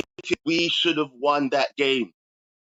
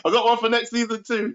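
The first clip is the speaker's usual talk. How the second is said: giggling through the words; laughing, high and bubbly; 8 semitones higher than usual. Real, not acted. Laughing at acronym teasing.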